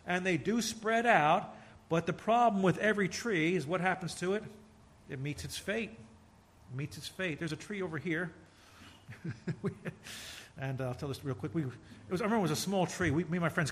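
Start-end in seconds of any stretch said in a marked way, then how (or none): 5.9-7.4 softer and slow, letting it sink in; preacher echoing the warning softly and slowly; hushed, slow repeat. Shown as a demonstration. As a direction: drop the voice and slow right down on fate. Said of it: "repeats phrase, second softer".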